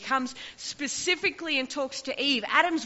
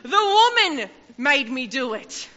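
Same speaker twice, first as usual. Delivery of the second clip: mock excuse; 2 semitones higher, 9 dB louder than usual. Mocking Adam's excuse.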